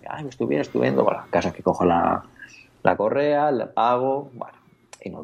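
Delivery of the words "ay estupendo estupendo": higher, softer bright reply as the friend; a hint of the friend's sing-song approval; chirpy shop friend. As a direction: play the cheerful shop assistant, lightly. Shop friend María answers cheerfully.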